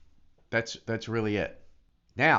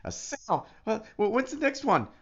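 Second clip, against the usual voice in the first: unimpressed shrug; 9 semitones higher than usual. Retold or imitated. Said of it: "Before it was like".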